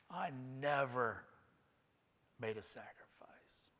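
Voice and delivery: slow, fading to a near-whisper; hushed solemn close. Acted. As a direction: let the quote sink away softly. Hushed close of Livingstone quote.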